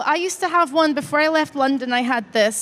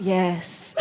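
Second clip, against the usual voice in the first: mock grunt; 6 semitones lower, 6 dB quieter than usual. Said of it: "this man went".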